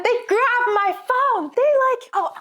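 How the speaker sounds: incredulous, reliving the shock; outraged disbelief. Real, not acted. Outraged retelling of phone grab.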